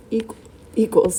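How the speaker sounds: hiccuping mid-word; talking through the hiccups. Real, not acted. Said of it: "sorry, I have the hiccups".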